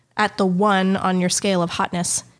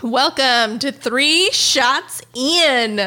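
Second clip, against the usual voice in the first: slow, overdone host intro; trying to sound interesting; 3 semitones higher, much slower than usual. Shown as a demonstration. Host's showy take-two podcast welcome. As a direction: stretch it out like a showy announcer. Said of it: "I'm trying to sound interesting now".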